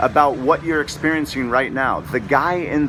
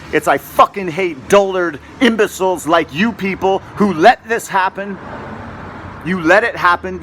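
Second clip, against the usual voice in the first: loud, higher furious outburst at the viewers; angry rant; 5 semitones higher, 3 dB louder than usual. Real, not acted. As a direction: shout them down, real fury.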